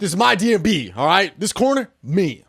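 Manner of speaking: hammed-up challenge; mock turf claim. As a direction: stake out your corner loudly. Mock arcade turf quarrel.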